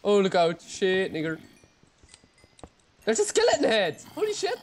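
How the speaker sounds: high, loud excited shout; excited yell. Real, not acted. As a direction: cry out in delight at the find. Rare head drop, excited yell.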